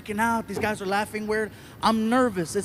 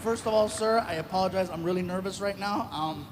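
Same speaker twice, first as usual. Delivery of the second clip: softer, lower nervous apology; 3 semitones lower, 6 dB quieter than usual. Retold or imitated. Comedian retells his nervous apology to the angry German. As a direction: apologize timidly to the heckler. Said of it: "I'm like".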